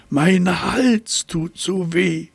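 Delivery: high, slow whimpering giraffe voice; whining giraffe. A narrator's reading. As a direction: moan it like a sore-throated giraffe. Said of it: "jammerte sie".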